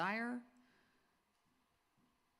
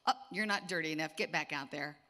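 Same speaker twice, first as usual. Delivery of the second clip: playful friend; 6 dB louder than usual. Retold or imitated. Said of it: "she'd go".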